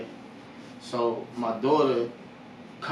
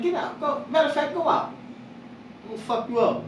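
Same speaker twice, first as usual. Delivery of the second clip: retold angry order; 11 semitones higher, faster than usual. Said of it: "So I'm like".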